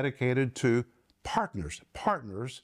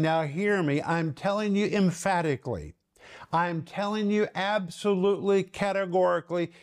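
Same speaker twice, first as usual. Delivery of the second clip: emphatic raised voice; 4 semitones higher than usual. Acted. Preacher voicing Paul demanding to be heard, mildly raised emphatic voice. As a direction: pitch lifting as the insistence builds. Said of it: "It's like he's raising his voice".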